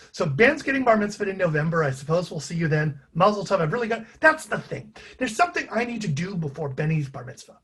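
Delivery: put-on a light old Jewish grandfather accent, pleading; Howie Siegel voice as Joey. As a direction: gently plead in a faint old Jewish New York accent. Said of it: "sort of accent I was putting on for Joey".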